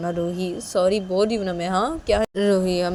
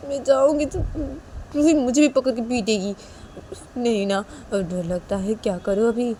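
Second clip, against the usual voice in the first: lightly voiced anxious parent, higher; worried papa; 4 semitones higher than usual. Piyu panicking over how to save the daughter.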